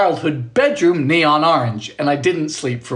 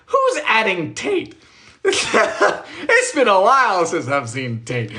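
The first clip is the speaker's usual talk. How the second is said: laughing; 3 semitones higher, slower than usual. Real, not acted. Laughing at chat.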